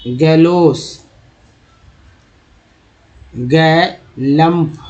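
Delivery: गैलम्प drawn out slowly, syllable by syllable; teacher stretching गैलम्प out for students; slow sounding out. Shown as a demonstration. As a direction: read गैलम्प very slowly so each sound is clear. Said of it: "ये देखिए एल यू".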